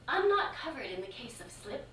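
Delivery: giggling through the words; laughing while saying it. Retold or imitated. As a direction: laugh your way through the excuse. Laughing through own punchline.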